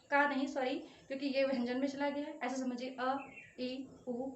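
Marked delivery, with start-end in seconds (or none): 3.0-4.3 short vowels. Shown as a demonstration. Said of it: "ये चला जाएगा आपका हर्ष स्वर में".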